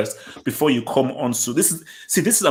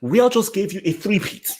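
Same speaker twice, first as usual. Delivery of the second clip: 1 excited rant; 5 semitones higher, faster than usual. Real, not acted. Excited rant, very high pitch.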